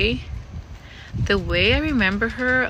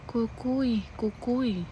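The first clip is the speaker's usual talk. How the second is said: daughter's eerie call; 4 semitones higher, 7 dB quieter, much slower than usual. Retold or imitated. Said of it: "she's like".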